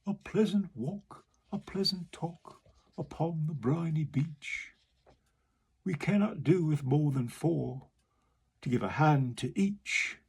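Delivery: coaxing walrus. Acted. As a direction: charm them along. Walrus persuades the oysters.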